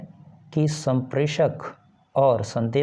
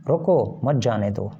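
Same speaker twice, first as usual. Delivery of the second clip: रोको set apart by a short pause, then मत जाने दो together; pause after रोको; 2 semitones lower than usual. Shown as a demonstration. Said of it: "कुछ देर के लिए विराम हुआ".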